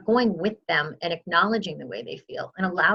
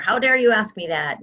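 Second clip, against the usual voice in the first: mock indignant mom; 4 semitones higher, 4 dB louder than usual. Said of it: "say her mom says".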